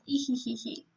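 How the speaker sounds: soft read-out tittering laugh; lightly faked, quiet giggle; odd giggle. A narrator's reading. Girl lying on his bed, odd quiet giggle. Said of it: "I let out an interesting laugh".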